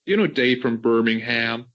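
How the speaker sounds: put-on generic American accent; hammed-up American voice; mock American accent. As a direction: play an American tourist asking after an acquaintance. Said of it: "What American accent is that".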